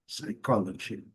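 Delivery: slow "psychology" ending in "dji"; G inglês. Shown as a demonstration. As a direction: put a D before the G in "psychology". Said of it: "e eles falam G". ("psychology" devagar, terminando em "dji")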